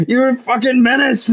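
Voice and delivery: high, loud, laughing mock shriek of outrage; Aunt May screaming at Peter, high-pitched and laughing. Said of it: "she's like".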